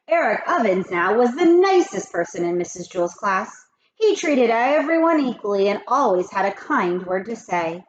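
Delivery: lively read-aloud storytelling; story narration. A narrator's reading. Teacher reading a chapter aloud to kids, lively. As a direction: read it like a teacher to her class.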